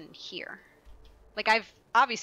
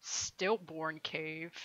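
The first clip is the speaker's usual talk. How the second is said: reading slowly; 4 semitones lower, 8 dB quieter, much slower than usual. Real, not acted. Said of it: "that title made me uncomfortable".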